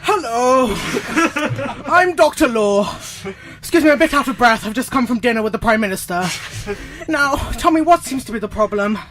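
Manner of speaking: a lightly voiced pompous lawyer; breezy self-important barrister; Doctor Law. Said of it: "let's get Doctor Law in".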